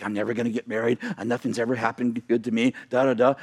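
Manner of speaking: low, resigned mock moan; acted dejection. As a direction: drop the pitch and grumble hopelessly. Voicing the hopeless barren woman.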